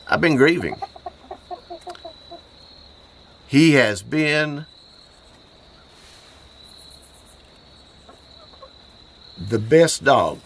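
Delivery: fighting back tears over his dead dog; grief-choked voice. Real, not acted. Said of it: "my voice is messed up".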